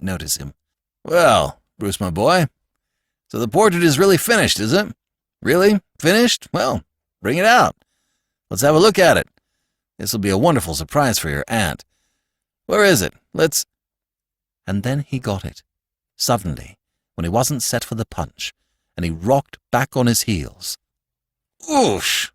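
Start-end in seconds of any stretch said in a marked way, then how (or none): 1.0-13.6 put-on hearty old uncle. Uncle greeting Corky about the finished portrait, hearty. 21.7-22.3 sharp high gasp of a word; shocked exclamation. Acted. Uncle seeing the ugly portrait, shocked. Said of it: "he exclaimed".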